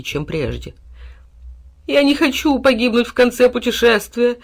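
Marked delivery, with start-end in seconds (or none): 1.9-4.4 high, loud mock wail; tearful. A narrator's reading. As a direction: protest as if weeping bitterly. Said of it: "обливался горючими слезами хлеб". (плаксивый вопль)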